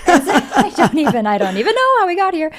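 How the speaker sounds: high, laughing can't-believe-it; laughing disbelief. Real, not acted. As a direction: laugh through the shock of the date.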